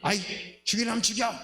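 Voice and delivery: firm, emphatic declaration of faith; defiant resolve. Acted. Believer answering the enemy's challenge, defiant resolve. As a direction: declare it with mounting insistence.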